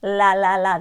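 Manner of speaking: "La" with the tongue tip at the gum ridge; front L. Shown as a demonstration. Teacher sounding out the Irish front L. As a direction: clear liquid l in "La, la, la". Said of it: "that's your front L".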